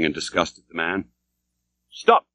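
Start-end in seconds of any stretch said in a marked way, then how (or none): 1.9-2.3 crying out. A narrator's reading. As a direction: call him to halt with a sharp raised cry. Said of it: "cried the stranger".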